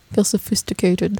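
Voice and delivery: a hint of transatlantic glamour; glamorous old hollywood star. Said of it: "we falsely lower our voices to sound more sophisticated".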